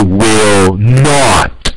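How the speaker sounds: will NOT with not stressed; firm, stressed NOT. Shown as a demonstration. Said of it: "if you want to emphasize".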